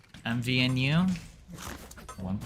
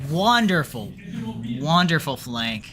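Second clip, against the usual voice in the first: excited; 5 semitones higher, 7 dB louder than usual. Real, not acted. Praising the flank.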